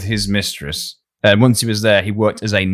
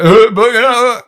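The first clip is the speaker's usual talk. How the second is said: mock eureka; 11 semitones higher, 5 dB louder than usual. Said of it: "And Adam was like".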